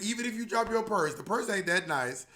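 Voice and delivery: lightly cheery subway announcer; sassy safety tip, half read out; announcement voice. Retold or imitated. Bob the Drag Queen on his subway recording, sassy and bright. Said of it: "I was like".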